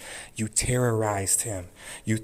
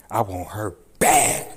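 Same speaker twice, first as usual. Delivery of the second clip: I want her bad said louder and slower, stress on bad; louder outburst; 6 dB louder than usual. Real, not acted. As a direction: hit bad hard with rising force. Furious rant at the judge.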